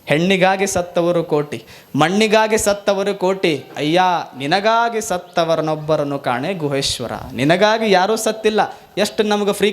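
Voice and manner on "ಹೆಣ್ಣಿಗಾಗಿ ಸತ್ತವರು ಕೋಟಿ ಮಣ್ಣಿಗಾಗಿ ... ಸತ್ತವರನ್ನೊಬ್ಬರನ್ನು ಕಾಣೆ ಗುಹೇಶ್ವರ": vachana recitation. Shown as a demonstration. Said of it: "ಗುಹೇಶ್ವರ್ ಅಂತಾರೆ".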